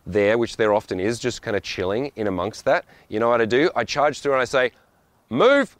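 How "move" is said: sudden high, loud shout; barked order. Acted. Rushed traveller to family blocking the walkway, urgent shout. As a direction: shout it to clear the way. Charging through dawdlers at airport.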